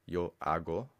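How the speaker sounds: "hago" said with no h sound, starting on the a; silent H. Shown as a demonstration. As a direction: drop the h of "hago", say it like "ah-go". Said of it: "Silent H, by the way".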